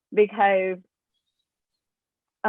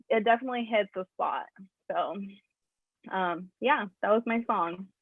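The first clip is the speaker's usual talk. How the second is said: after crying; 6 dB quieter than usual. Real, not acted. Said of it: "Sorry, I got teary-eyed".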